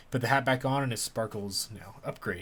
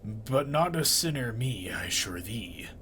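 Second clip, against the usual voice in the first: sly denial; slower than usual. Acted. Tree denies sin.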